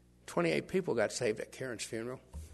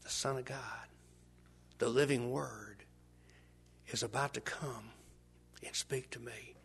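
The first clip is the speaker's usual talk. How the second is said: awed whisper; 8 dB quieter, slower than usual. Pretend. Awed inner thought.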